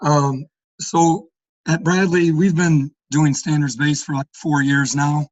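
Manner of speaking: hoarse, fading voice; losing voice. Real, not acted. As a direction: speak through a hoarse, worn-out throat. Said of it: "I'm losing my voice".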